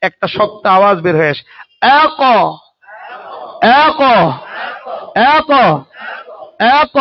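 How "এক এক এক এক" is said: এক clipped with a hard echoing bounce; qalqala bounce demo. Shown as a demonstration. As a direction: knock each sound out sharply. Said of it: "মাখরাজের সাথে জোরে ধাক্কা".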